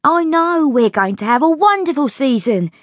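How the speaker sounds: put-on high-pitched, eager servant girl; excited maid reassuring her friend; excited chambermaid. A narrator's reading. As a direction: gush about the season in a high voice.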